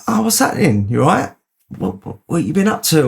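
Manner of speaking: high, bright retold hello; mock-excited hotel lobby greeting.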